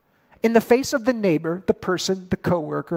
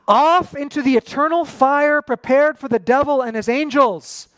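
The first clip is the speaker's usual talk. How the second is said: stern judgment; 6 semitones higher, 4 dB louder than usual. Acted. Jesus's harsh judgment, quoted.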